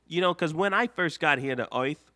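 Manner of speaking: a light, barely changed Lapis voice; Lapis, lightly voiced, wary and questioning; Lapis impression. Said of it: "this is my Lapis impression".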